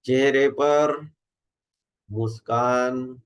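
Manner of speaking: measured instructions with long pauses between phrases; guided meditation. Acted. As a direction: guide a group into relaxation, unhurried.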